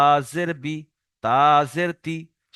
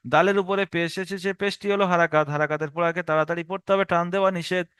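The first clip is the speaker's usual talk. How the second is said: steady drilled recital in one run; even, unbroken classroom drill; continuous rule recitation. Shown as a demonstration. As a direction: recite the rule straight through, evenly. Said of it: "টানা ইজরা করে চলে যাব".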